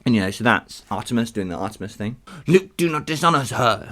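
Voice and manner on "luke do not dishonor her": slightly raised warning as Hermes; a mild, acted caution. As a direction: warn with a touch of firmness. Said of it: "Hermes warned".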